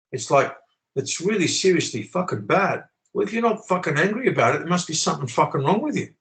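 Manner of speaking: righteous indignation, pitch climbing; worked up. Real, not acted. Speaker defending his tone to critics, worked up. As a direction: push the swearing out with heated conviction. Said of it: "you listen to my tone".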